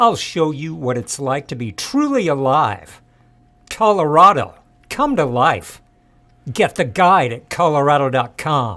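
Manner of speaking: very loud, seething, furious rant. Reading an ad script after being asked to: reading as angrily as possible. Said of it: "read this as angrily as you possibly can".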